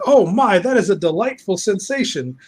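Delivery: high, hammed-up delight; mock delighted villain. Villain savouring a strange new sensation, mock delighted.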